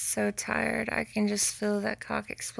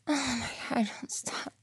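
whisper; 2 semitones higher than usual. Real, not acted. Pleading whisper.

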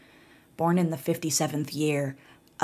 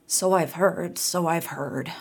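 put-on tired old voice, lightly wheezed; a hint of a wheezy crone; wheezing old woman. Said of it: "wheezed the old woman".

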